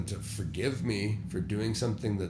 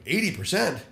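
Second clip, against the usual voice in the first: shocked echo; 7 semitones higher, 4 dB louder than usual. Retold or imitated. Shocked echo of mentor's figure.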